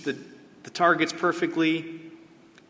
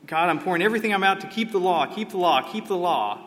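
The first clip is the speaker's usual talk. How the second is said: mock pleading; 4 semitones higher, 4 dB louder than usual. Preacher voicing a striving believer.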